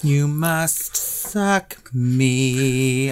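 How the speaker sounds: mock vampire line.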